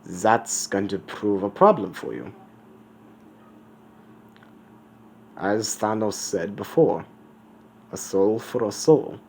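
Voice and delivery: put-on skull-faced figure in a rough German accent; measured, put-on German accent; attempted German accent. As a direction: deliver it with an amateur German accent. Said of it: "I'm trying to do a German accent".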